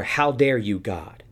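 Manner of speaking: imitating an indignant accusation at God; mock indignation. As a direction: throw the question as the crowd's outrage. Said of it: "No, no, no".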